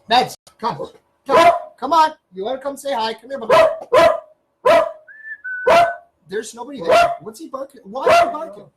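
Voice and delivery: high sing-song pet voice; talking to the dog. Real, not acted. Calling and scolding the dog.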